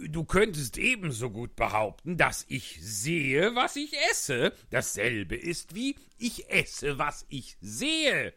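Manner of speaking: loud, lecturing mad hatter; Hatter, scornful. A narrator's reading. The Hatter mocks Alice's logic, loud and slow.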